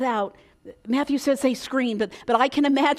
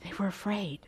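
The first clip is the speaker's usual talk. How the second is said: hushed whisper; 4 semitones lower, 9 dB quieter, faster than usual. Acted. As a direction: drop to a whisper, as if scared to say it. Sermon retelling fear in the storm.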